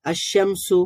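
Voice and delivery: "আশ শামসু" as ash-shamsu, no l; silent lam. Shown as a demonstration. Teacher shows learners the reading, silent lam. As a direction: run a straight into doubled sh in "আশ শামসু". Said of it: "আমরা কিন্তু লামটাকে পড়িনি".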